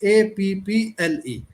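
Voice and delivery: slow, deliberate reading aloud, each letter separate; loud and slow. Shown as a demonstration. Teacher demoing for students a slow, loud alphabet drill. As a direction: read it out slowly and a bit loud like a drill. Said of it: "थोड़ा ऊंचा बोलना है आपने".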